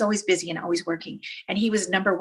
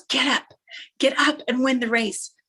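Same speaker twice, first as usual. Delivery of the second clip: urging dad; 4 semitones higher, 3 dB louder than usual. Retold or imitated. Dad urges fallen son on.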